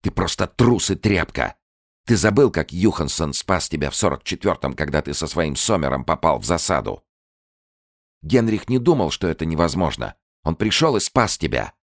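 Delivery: high, loud scornful shouting; a woman shaming her lover as a coward; contemptuous reproach. Acted. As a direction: shame him for cowardice. Contemptuous accusation.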